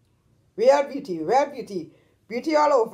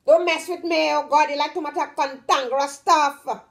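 sing-song scolding, pitched up; melodious Trinidadian scolding; 4 semitones higher than usual. Shown as a demonstration. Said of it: "We like to sing when we talk".

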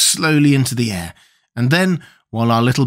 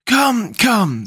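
lightly voiced higher character, soothing; kindly Scarecrow; 11 semitones higher than usual. A narrator's reading. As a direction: cheer them up in a raised, kindly voice. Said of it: "said the Scarecrow kindly".

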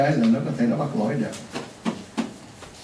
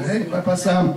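mock rude call; 4 semitones higher than usual. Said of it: "Cái đó là nó hỗn đó".

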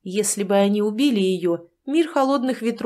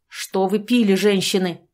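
barked. Acted. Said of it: "рявкнул Гэндалф".

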